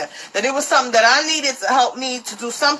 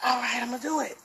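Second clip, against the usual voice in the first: resigned agreement; 4 semitones lower, 11 dB quieter, much faster than usual. Retold or imitated. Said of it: "I was like".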